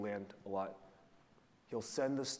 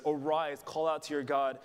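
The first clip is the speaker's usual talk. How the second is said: God's command; 4 semitones higher, 6 dB louder than usual. Acted. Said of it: "He says".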